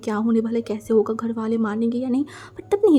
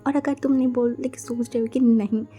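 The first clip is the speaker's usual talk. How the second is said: scolding friend. Acted. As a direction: tell her off, then wave her away. Narrator voices scolding friend.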